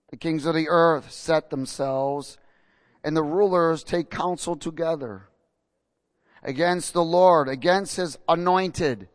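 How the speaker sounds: slow, weighty reading from the pulpit; scripture reading. Acted. Preacher reads Psalm two aloud, slow and solemn. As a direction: lay each line out slowly and solemnly.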